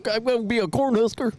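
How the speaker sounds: high rustic hick voice; proud cartoon hick. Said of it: "hick voice".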